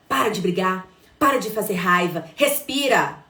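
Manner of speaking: mother losing her own temper, yelling at her son; exasperated yelling. Shown as a demonstration. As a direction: lose your temper with the child. Mother snapping at her angry child.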